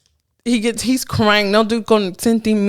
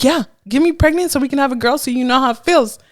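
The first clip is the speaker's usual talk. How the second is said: fast, high-pitched mock-crying rant; retold tearful outburst; 6 semitones higher, faster than usual. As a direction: blurt it out as if upset and crying. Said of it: "I was crying".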